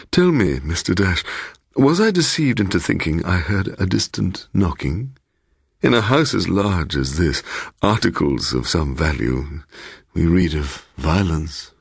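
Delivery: lightly voiced, insinuating old host; a hint of a smooth, teasing host welcoming a guest; sly host Bloom. Host Bloom teasing his surprised guest, lightly voiced insinuating tone. Bloom asks about knocking.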